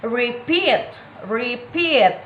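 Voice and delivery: "repeat" with a long, stressed PEAT; stress on second syllable. Shown as a demonstration. Teacher giving an example to viewers, rePEAT stressed at the end. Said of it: "stress on second syllable".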